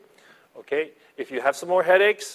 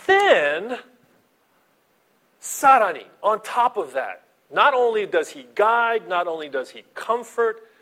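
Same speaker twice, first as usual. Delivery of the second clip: louder and higher, building preaching; rising fervor; 6 semitones higher, 4 dB louder than usual. Real, not acted. Pastor building excitement over God's gifts. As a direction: climb toward the big point.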